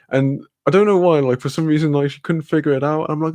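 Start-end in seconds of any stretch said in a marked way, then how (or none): none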